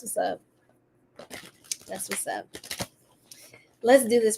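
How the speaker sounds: soft whisper to start. Real, not acted. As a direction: hush it like a secret. Starts reading, hushed.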